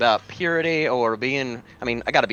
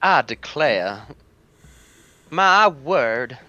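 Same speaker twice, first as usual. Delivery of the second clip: southern belle; much slower than usual. Acted. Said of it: "give her a Southern belle accent".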